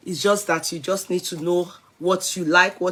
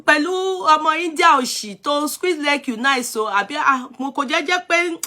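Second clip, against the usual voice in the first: scolding rant; 3 semitones higher than usual. Real, not acted. Telling off a rude young commenter, angry scolding rant.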